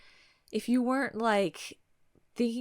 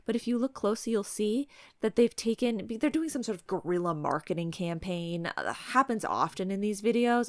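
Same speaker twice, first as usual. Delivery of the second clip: Karen voice. Acted. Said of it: "the Karen routine".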